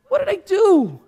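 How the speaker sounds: anguished outcry. Retold or imitated. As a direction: throw it at God harder the second time.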